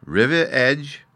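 put-on a little boy echoing a strange word; puzzled child. A narrator's reading. Fairy boy mishearing revenge, puzzled and high. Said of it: "said Bruno".

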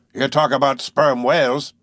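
slow, emphatic tall-tale teller; lightly voiced boastful harpooner. Harpooner telling tales of sperm whales, lightly boastful. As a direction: spin a whaler's yarn with relish.

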